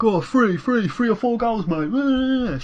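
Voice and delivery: high-pitched mock Southern English; exaggerated Southern English impression, high and jeering; mocking Southern English accent. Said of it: "especially the Southerners who are like".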